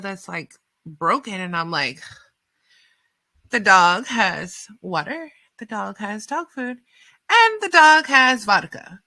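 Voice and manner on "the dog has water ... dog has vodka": building disbelief. Retold or imitated. Listing what the dog has.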